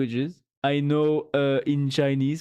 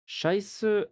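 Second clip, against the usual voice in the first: German swear; 6 semitones higher than usual. Shown as a demonstration. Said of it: "In German".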